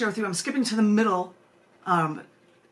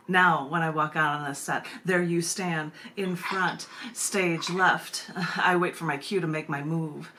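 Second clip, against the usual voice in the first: lower, measured poem reading; 3 semitones lower than usual. Acted. Reads her poem aloud.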